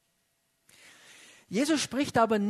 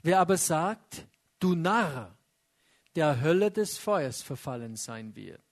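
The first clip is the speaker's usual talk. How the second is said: measured Bible reading voice; scripture reading; 2 semitones lower than usual. Acted. Preacher reading scripture to congregation, solemn. Reads scripture passage aloud.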